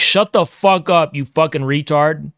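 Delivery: slow angry cussing; drawn-out snap at chat; angry rant. Real, not acted. Ranting at chat user.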